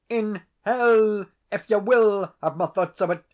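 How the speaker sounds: cornered tenant explodes at the laird; furious outburst. A narrator's reading. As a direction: hurl it at the laird in desperation. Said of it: "driven to extremity".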